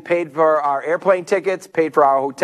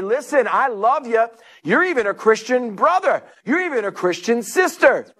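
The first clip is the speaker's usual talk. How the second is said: raised, insistent rebuke with love; bold; 5 semitones higher than usual. Acted. Preacher modelling an answer to doubters, bold and insistent. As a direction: state it boldly, pitched up. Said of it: "bold enough to say".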